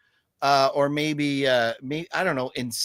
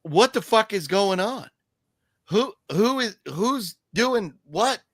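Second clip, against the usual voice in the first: confused viewer; 6 semitones higher than usual. Retold or imitated. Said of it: "you're like".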